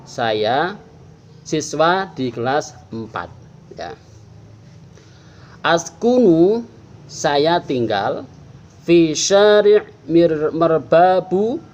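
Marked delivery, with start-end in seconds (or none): 5.6-11.6 slow, clear reading voice; slow model reading. Shown as a demonstration. Teacher reading the model text slowly to pupils. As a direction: read each word slowly for pupils to copy. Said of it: "Paman akan baca".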